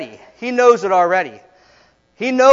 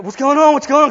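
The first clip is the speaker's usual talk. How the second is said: higher, urgent repeated questioning; mom freaking out; 6 semitones higher, 4 dB louder, faster than usual. Retold or imitated. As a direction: imitate a frantic mother by the phone. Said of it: "like, freaking out".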